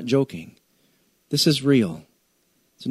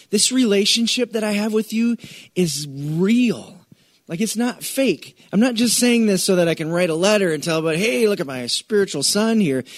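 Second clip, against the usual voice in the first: voicing Paul; 6 semitones higher than usual. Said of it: "And Paul is saying".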